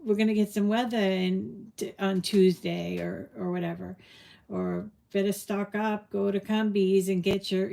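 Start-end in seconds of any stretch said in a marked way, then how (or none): 0.1-3.0 local New England talk, R dropped on weather; lightly put-on New England accent. Shown as a demonstration. Showing how locals warn of a storm, New England accent. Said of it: "That's how they say it". 5.1-7.7 light New England accent, dropped Rs. Shown as a demonstration. New Englander urging a storm stock-up, light New England accent. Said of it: "That's how they say it".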